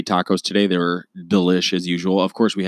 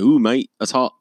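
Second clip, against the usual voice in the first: higher, hammed-up Australian accent; playful bad Australian; mock Australian; 5 semitones higher, 3 dB louder than usual. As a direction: put on an Australian mate reacting. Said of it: "with the Australian".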